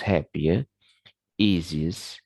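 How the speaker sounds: "Happier" and "easiest" as separate model words; careful list reading of "Happier, easiest"; weak suffix examples. Shown as a demonstration. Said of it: "termasuk pada weak syllables".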